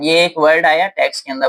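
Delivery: normal talking voice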